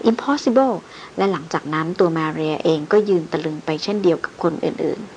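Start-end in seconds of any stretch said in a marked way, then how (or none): 0.1-0.7 shocked cry. Acted. Young woman hearing the corpse walked, crying out in shock. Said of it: "แหม่มสาวร้องลั่น".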